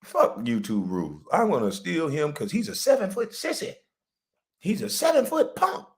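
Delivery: lightly voiced mocking thief; mocking the thieves. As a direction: sneer it like the clowns stealing his lives. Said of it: "they say".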